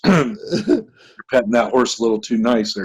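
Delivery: lightly voiced Alabama cop; Alabama accent. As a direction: put on an Alabama lawman's accent. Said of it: "That's all our Alabama accents".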